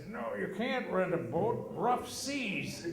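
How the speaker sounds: mock stubborn dad; stern dad refusal. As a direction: refuse flatly, rough seas. Dad refusing boat rental.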